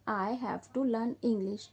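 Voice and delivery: very slow, every word set apart; slow dictation. Shown as a demonstration. Teacher modelling the sentence slowly for her pupils. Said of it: "ठीक है".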